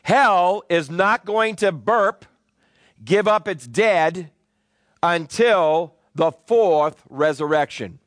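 drawn-out words with heavy pauses between phrases; slow, weighty preaching. Real, not acted. Preacher warning that hell will not give up its dead, slow emphatic preaching. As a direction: let each phrase land on the congregation.

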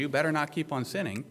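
mild scolding command; a touch of finger-wagging; finger-wagging warning. Shown as a demonstration. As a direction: say it as a brisk admonishment. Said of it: "He's not finger wagging to you".

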